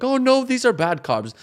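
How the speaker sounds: high, slow, hammed-up horror; mock alarm. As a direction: play the food fusser, overdone. Mocking fussy food thinking.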